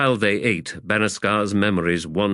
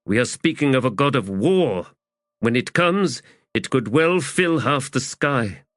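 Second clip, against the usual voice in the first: slightly higher, portentous character voice; grave soldier's foretelling; 7 semitones higher than usual. Acted. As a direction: foretell a god of war.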